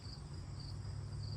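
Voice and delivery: soft unvoiced giggle; stifled laugh, trying to stop; quiet breathy laugh. Real, not acted. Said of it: "why I'm laughing".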